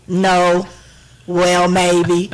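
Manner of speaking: halting imitation of a vague guest; mock noncommittal answers, spaced out; unforthcoming interviewee. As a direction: mimic a guest giving nothing back. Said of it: "you're passionate about this, and all I'm getting is".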